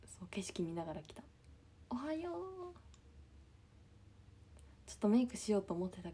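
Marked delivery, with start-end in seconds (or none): 1.9-2.7 sleepy greeting. Acted. Soft sleepy greeting to viewers.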